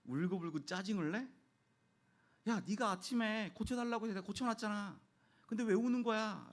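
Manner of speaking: high, indignant parental telling-off, acted; exasperated scolding. Dad scolding his crying son in retelling, high and indignant. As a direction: replay a fed-up dad scolding his kid. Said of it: "한 소리를 했죠".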